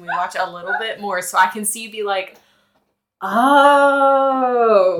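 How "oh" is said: sudden dawning realization; surprised oh. Pretend. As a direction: gasp out a surprised oh. Imitating friend's realization.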